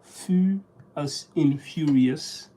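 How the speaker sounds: "fu" held slowly, as in "furious"; pronunciation guide. Shown as a demonstration. Reader working through the pronunciation, slowly demonstrating "fu" as in "furious". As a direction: spell out the sound "fu" slowly, matching "furious". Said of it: "Pronunciation is".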